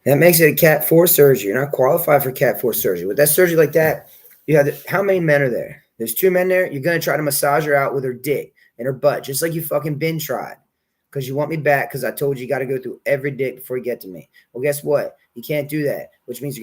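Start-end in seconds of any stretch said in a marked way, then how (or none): 0.0-10.6 loud, forceful telling-off; real angry yelling. Real, not acted. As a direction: yell at them about the botched surgery. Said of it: "I'm yelling at that guy".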